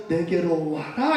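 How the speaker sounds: gentle invitation. Pretend. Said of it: "이렇게 말합니다".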